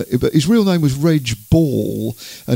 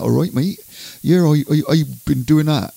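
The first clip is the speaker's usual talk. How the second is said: mock-up of a rural Andover accent; country accent; 3 semitones higher than usual. Presenter imitating the late singer he interviewed, country accent. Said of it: "he had a really kind of country accent".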